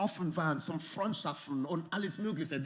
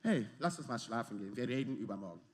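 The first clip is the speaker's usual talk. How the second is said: softer and lower, a tired wife wanting to sleep; sleepy wife; 9 semitones lower, 6 dB quieter, faster than usual. Retold or imitated. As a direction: murmur it low like a wife ready for bed. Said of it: "der sagt".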